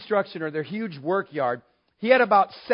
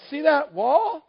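high, loud, proud call; proud excited; 10 semitones higher, 5 dB louder, slower than usual. Retold or imitated. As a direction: show off your artwork eagerly. Proudly showing the splattered wall.

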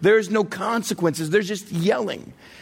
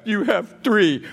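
put-on small child; slower than usual. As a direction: answer dad like a dutiful toddler. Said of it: "he's two and a half".

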